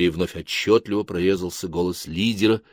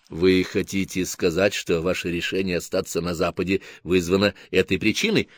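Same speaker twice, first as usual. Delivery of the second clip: calm psychiatrist; 4 semitones lower, 6 dB quieter than usual. Acted. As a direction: question him like a psychiatrist. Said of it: "как голос врача-психиатра". (спокойный голос врача-психиатра)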